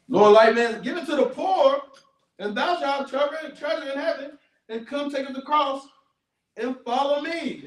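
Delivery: high urgent plea; pleading. Retold or imitated. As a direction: beg them to give it away. Voicing Jesus pleading.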